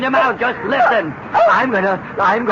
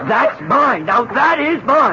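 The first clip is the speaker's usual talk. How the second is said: mild angry claim; 3 semitones higher than usual. Acted. Man grabs woman's dress.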